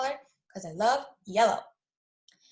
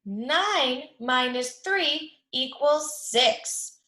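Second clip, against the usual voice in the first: put-on drawn out, every word slowed for kids; slow read-along; much slower than usual. Shown as a demonstration. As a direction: stretch it so the class reads along. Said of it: "Read it with me".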